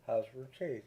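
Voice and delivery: Richesi as "rih-CHAY-zee", falling at the end; correct pronunciation. Shown as a demonstration. Reviewer correcting other YouTube reviewers, Richesi pronounced "rih-CHAY-zee". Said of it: "The correct pronunciation".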